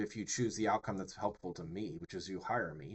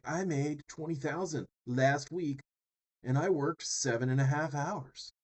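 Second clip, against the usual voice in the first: mock pitchman brag; 4 semitones higher than usual. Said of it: "He's like".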